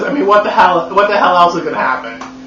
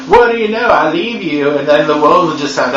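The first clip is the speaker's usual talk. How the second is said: mock dramatic Edward. Edward warns Bella the world ends without him, mock dramatic. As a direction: ham up the vampire's gloomy warning. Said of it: "and Edward's like".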